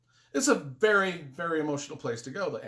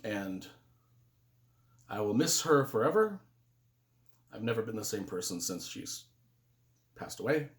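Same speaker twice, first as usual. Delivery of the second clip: halting and subdued, long pauses; real grief; 4 semitones lower than usual. Real, not acted. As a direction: hold back sorrow as you speak of her. Says he misses her forever.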